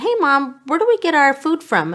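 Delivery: lightly put-on voice of a curious child; retold child's question. Daughter asking mom about food, lightly imitated child voice. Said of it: "she said".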